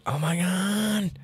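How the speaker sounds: high, slow mock amazement; mock gasp of amazement; amazed. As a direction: act stunned, drawn out. Friend's amazed reaction.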